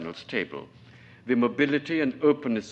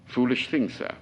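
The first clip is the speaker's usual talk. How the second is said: with pride; 2 semitones higher than usual. Acted. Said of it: "Don't say it with so much pride".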